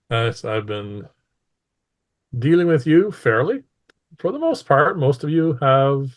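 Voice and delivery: lightly voiced ruler opening a speech; imperious mistress. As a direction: address the crowd with long, deliberate pauses.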